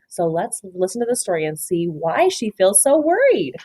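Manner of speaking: hushed, breathy whisper to the class. Real, not acted. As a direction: lean in and whisper it. Teacher hushes class before story.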